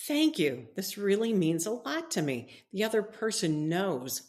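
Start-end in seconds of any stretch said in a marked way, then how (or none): 0.1-2.6 sincere "Thank you", fuller and louder; mean every word of the thanks; heartfelt thanks. Shown as a demonstration. Preacher demonstrating grateful thanks for a gift, heartfelt. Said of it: "Or you could say".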